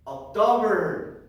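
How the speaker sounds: stretched, emphatic model word; teacher's drill call. Shown as a demonstration. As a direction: call it out for the class to repeat. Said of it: "I am going to say".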